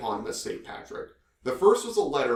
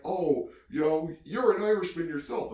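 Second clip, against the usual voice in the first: imitated father; 5 semitones higher than usual. Father voiced in retold story.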